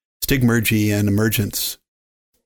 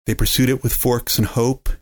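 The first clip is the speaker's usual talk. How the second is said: poem recitation. A narrator's reading.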